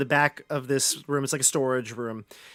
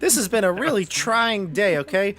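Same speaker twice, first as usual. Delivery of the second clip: nervous pleading; 5 semitones higher, 4 dB louder than usual. Acted. Frightened shopkeeper pleads.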